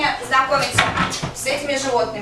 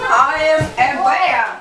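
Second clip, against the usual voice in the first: slow, heavy bear voice; 4 dB louder, slower than usual. Acted. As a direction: rumble it slowly like a big bear. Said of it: "а я заколдовалась в медведя". (медленный медвежий голос)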